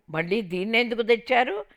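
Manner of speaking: bitter mother-in-law yelling. Retold or imitated. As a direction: scream to send her away. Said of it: "కేకలు పెట్టింది".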